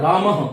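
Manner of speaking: रामः said as "ramaha" with the a echoed after the h; रामः with a breathy "ha" at the end; visarga echo. Shown as a demonstration. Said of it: "इसका उच्चारण होता है".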